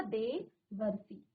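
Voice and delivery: देवर्षि stretched out, syllable by syllable; slow dictation. Shown as a demonstration. Teacher dictating the answer slowly. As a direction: draw out देवर्षि so they can write it. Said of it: "क्या हो जाएगा".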